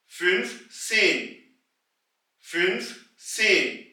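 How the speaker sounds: fünfzehn said slowly as "फिन्फ सेन", first फिन्फ then सेन; slow, careful "फिन्फ सेन" for learners; slow demo of fünfzehn. Shown as a demonstration. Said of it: "पहले आवाज निकालेंगे हम फिन्फ की और फिर निकालेंगे सेन की".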